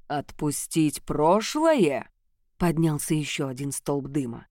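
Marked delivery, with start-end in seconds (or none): 0.1-2.1 slow, incredulous question; slow disbelieving echo. Acted. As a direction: repeat it back in disbelief.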